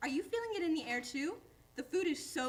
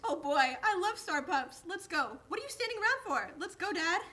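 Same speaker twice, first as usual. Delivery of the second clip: eager and louder, rising to a high burst; excited; 4 semitones higher, 4 dB louder than usual. Acted. Dog begging his dad to hurry to the star pups, eager and loud. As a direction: bounce with a dog's eagerness, pushing to go.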